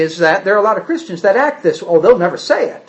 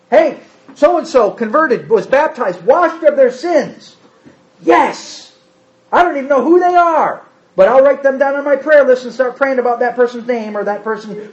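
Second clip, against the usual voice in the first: eager reaction; 4 semitones higher than usual. Pretend. Acting the eager believer's reaction.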